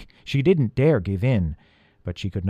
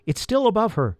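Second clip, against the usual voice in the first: higher-pitched guiding voice; rabbit character; 10 semitones higher than usual. A narrator's reading. Harriet the rabbit guides Peter's rope, raised voice. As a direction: report as the lookout, pitched up.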